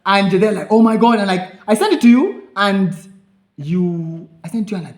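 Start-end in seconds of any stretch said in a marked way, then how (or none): 0.7-1.2 high, loud thrilled reaction; excited gasp. Retold or imitated. Friends seeing the screenshot, thrilled shout. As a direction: shriek it like great news.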